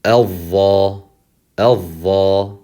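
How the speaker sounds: Al-dha with heavy doubled dh and long a; isolated, heavy Al-dha; one syllable at a time. Shown as a demonstration. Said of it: "taking one vowel at a time".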